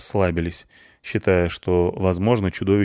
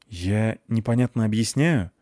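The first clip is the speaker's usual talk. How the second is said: tired. Acted. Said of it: "устало спросил Матвеев".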